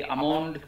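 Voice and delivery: "আমন্ড" said a-mond after spelling it; silent L in almond. Shown as a demonstration. Teacher repeats almond after spelling it, L silent. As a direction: say "আমন্ড" without any L sound. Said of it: "আলমন্ড নয় কখনো".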